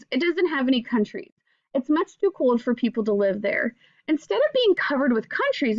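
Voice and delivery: gentle storybook reading voice; reading to children. Acted. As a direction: read it like a picture book to kids. Teacher reads picture book aloud.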